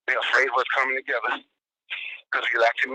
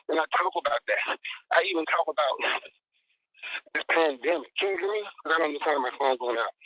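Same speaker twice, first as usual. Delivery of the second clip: muffled phone voice; 3 semitones higher than usual. Real, not acted. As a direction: sounds covered, like a hand over the mouth. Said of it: "muffled and stuff".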